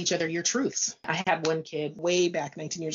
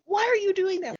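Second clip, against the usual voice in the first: very high, louder mock bewilderment; baffled disbelief; 14 semitones higher, 5 dB louder than usual. Mother to girls texting in the same room, incredulous. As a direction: exclaim it as a flabbergasted parent.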